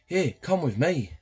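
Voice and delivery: high, slow, luring invitation; creepy Oak voice. Acted. Professor beckoning the young boy, slow creepy high voice. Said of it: "give Oak a creepy voice".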